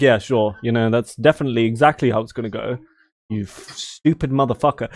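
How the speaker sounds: low, quick, understated agreement; dry sarcasm. Shown as a demonstration. Brit showing real British sarcasm, dry and understated. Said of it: "But our sarcasm is just like".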